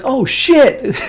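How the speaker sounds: high, loud, laughing mock robot curse; Bumblebee cussing. Imitating the cartoon robot swearing for a friend, high and laughing. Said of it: "Bumblebee's like".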